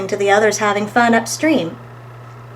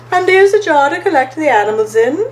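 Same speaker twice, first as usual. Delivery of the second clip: higher, louder, smiling story-character voice; 5 semitones higher, 5 dB louder than usual. A narrator's reading. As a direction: offer help with an audible smile. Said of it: "smiled Stripe".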